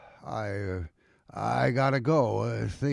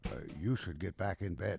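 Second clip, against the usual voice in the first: hushed; 4 semitones lower, 10 dB quieter, faster than usual. Acted. Man hushed at night doorway.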